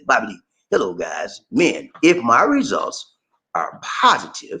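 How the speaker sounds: slow, word-by-word reading; careful rereading. Real, not acted. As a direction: read it again slowly, checking each word. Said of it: "let me just read that again".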